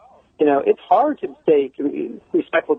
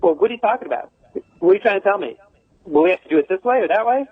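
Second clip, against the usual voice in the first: mildly confrontational questions, pitched higher; mock challenge to a teacher, raised pitch; short, challenging; 5 semitones higher, faster than usual. Shown as a demonstration. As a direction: demonstrate a curt, challenging comeback. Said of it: "when you're that short with it, it's a challenging tone".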